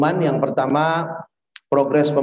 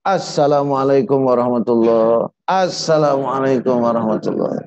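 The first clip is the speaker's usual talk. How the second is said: quicker, run-together salam; perfunctory intoned salam; wrong salam; 2 semitones lower than usual. Shown as a demonstration. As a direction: rattle off the prayer greeting without stretching it.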